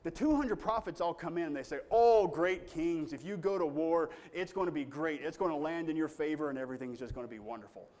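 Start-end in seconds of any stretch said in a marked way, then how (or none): 1.9-7.9 flattering. Retold or imitated. False prophets flatter the kings.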